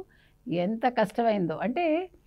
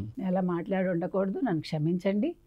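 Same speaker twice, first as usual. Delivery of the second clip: mock apology; 4 semitones lower, 6 dB quieter than usual. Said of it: "మూడు రోజుల తర్వాత ఏమన్నాడు".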